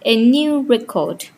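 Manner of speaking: "record" as a verb, re-CORD; in "record", stress the second syllable. Shown as a demonstration. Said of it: "verb triggers second syllable".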